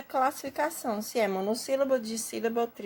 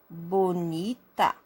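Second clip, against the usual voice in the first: measured, lower-pitched BONITA for pupils; slow example word; 4 semitones lower, much slower than usual. Shown as a demonstration. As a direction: say BONITA slowly, lightly parted. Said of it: "São três sílabas". (BONITA dito devagar, como exemplo)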